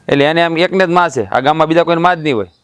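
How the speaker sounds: mock her for thinking only she has a mother; sarcastic scorn. Sarcastic jab at the in-law.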